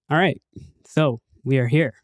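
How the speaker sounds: podcast host opening a segment. Real, not acted. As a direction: pick it up like a TV presenter. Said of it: "Why'd you start raising your voice? Like a TV voice?".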